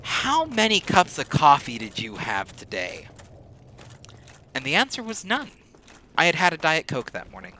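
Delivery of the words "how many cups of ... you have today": slow, drawn-out disbelieving question; stunned customer. Retold or imitated. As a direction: let the caller's amazement stretch the words. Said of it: "and he goes".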